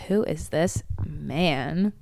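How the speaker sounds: slow, dreamy wonder; slow awestruck. Retold or imitated. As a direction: savor each word, smitten. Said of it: "I was like".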